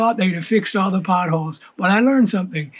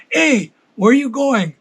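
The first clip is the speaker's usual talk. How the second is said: wife's mock yell, pitched higher; imitated yell; 5 semitones higher than usual. Wife calls from backyard to husband in boat, mock yell. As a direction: imitate a wife calling out across the yard. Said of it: "she yells".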